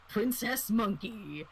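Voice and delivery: slow, drawn-out mocking title. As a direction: tease the name with a sneer. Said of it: "making fun of it and being like".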